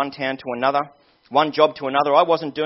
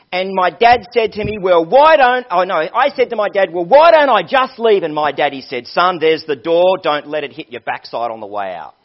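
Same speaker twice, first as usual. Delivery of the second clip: hammed-up Southern family quarrel, easing off at the end; attempted Southern US accent; 3 semitones higher, 8 dB louder than usual. Young man retelling the row with his daddy, attempted Southern accent. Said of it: "Again, I can't do the accent".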